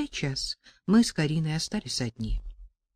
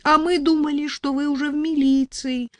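higher, tearful voice; sobbing; 9 semitones higher than usual. A narrator's reading. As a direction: sob it out in relief. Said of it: "всхлипывала я". (всхлипывая, высоко)

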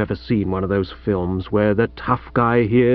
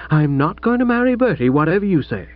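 defiant daughter; 3 semitones higher than usual. Acted. Pauline defies her father.

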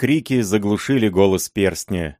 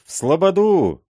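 much higher, louder yell; mob's echo, pitched way up; louder drunken shout; 10 semitones higher, 4 dB louder than usual. A narrator's reading. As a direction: top the first cry, rowdier. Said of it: "кричали пьяные удальцы".

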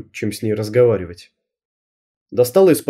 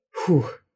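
soft relieved breath out; облегчённый выдох; 2 semitones higher, 6 dB quieter than usual. A narrator's reading. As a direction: exhale the tension away. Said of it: "выдохнула я". (тихий выдох облегчения)

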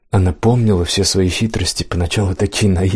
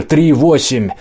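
shouting orders over battle; 6 semitones higher, slower than usual. Acted. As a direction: call out to the silent boat. Commander calls the lost boat.

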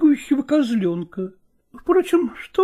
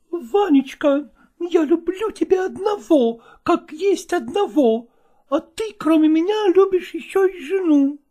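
mistress voice; 5 semitones higher than usual. Acted.

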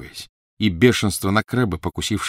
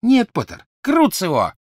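shouted curse; 6 dB louder than usual. Acted. Crabbe casts curse.

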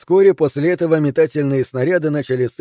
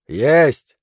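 short, sharp call; shouted answer; 4 dB louder than usual. Acted. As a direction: sing out the reply from afar. Defender calls answer down. (короткий выкрик в ответ)

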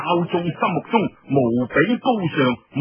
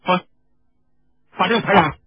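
scornful leader. Acted.

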